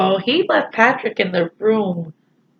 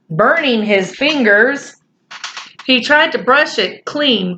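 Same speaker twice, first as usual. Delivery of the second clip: lightly voiced children's story reading; story narration; 3 semitones higher than usual. A narrator's reading. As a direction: read the story along evenly to young listeners.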